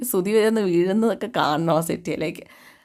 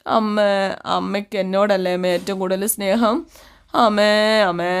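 mock drunken crying; slower than usual. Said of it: "ചങ്കത്തടിച്ചങ്ങ് കരയുവാ".

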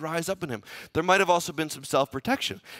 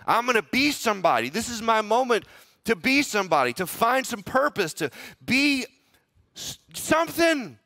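eager ambition; 6 semitones higher, 3 dB louder than usual. Retold or imitated. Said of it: "get ahead and say".

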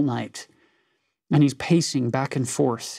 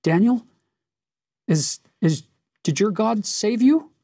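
lamentable cry; 7 semitones higher than usual. Retold or imitated. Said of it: "he cries out in a lamentable voice".

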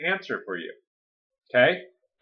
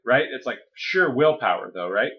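ordinary talk, nothing marked

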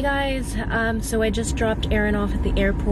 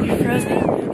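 loud exclamation; 6 dB louder, slower than usual. Real, not acted. Exclaims about freezing cold.

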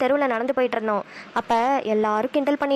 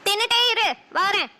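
sharp retort; 8 semitones higher than usual. Acted. Wife snaps back at husband.

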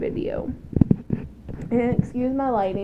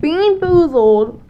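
slow, loud title call; drawn-out show announcement; announcer voice; 4 semitones higher, 5 dB louder, slower than usual. Shown as a demonstration. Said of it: "announcing the challenge title".

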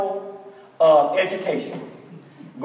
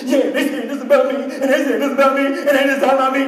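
imitating a crying girl, voice pitched up; mock boo-hooing; 3 semitones higher, faster than usual. Sobbing girl to her teacher, mock boo-hooing. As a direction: play the upset kid blubbering through her complaint. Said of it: "just boo-hooing".

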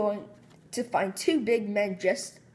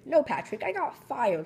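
wailing; 5 semitones higher than usual. Acted. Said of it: "SpongeBob wailed".

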